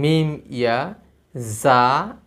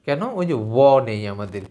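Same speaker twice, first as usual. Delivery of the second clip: ordinary delivery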